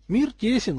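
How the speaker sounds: lightly amused, high-pitched quip; wry remark. A narrator's reading. Katrin remarks on the familiar family names, wryly. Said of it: "хмыкнула Катрин".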